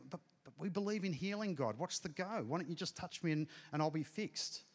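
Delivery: imitated pleading prayer. Retold plea to God.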